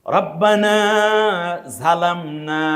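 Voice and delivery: রব্বানা জালামনা with the emphatic zha sound; জালামনা starting on a heavy, throaty z. Shown as a demonstration. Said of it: "ঝা দিয়ে".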